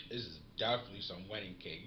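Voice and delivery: smacking lips while talking; smacky voice. Real, not acted. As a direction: talk with a dry smacky mouth. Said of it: "in a smacky smack kinda tone right now".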